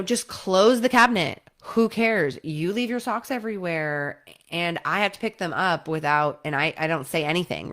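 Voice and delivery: irritated tit for tat retort; defensive snap. Retold or imitated. Snapping back at partner about the socks, defensive. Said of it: "tit for tat defensiveness".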